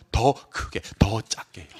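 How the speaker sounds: soft, breath-only "더 작게"; softly spelled-out options; hushed demonstration. Shown as a demonstration. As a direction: let the words sink into a whisper. Teacher demonstrates exam answer wording.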